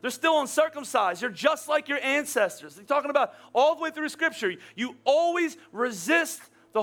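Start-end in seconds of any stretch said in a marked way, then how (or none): 0.0-2.7 stern rebuke. Retold or imitated. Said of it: "they said".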